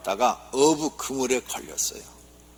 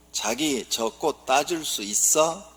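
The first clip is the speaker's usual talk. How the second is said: coy Seoul wife; 2 semitones higher, slower than usual. Acted. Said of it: "서울 아내".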